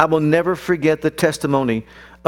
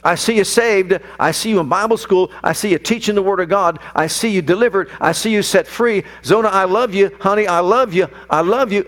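fervent retold prayer; 3 semitones higher than usual. Father praying aloud for his daughter.

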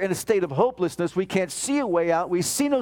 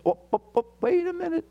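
sudden self-interruption; 11 semitones higher, faster than usual. Acted. Preacher cuts off his own quote.

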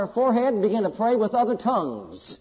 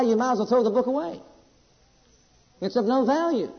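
raised-pitch, driving sermon delivery; emphatic preaching; 6 semitones higher, 4 dB louder than usual. Real, not acted. Preacher assuring the congregation that God can't lie, emphatic preaching. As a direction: preach it with conviction, leaning on key words.

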